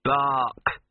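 turned into a bark; mock bark. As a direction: bark it out short. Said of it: "turn it into a bark".

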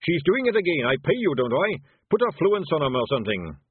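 panicking boss yelling at his helper; angry shout. A narrator's reading. Dwarf shouting at his wizard.

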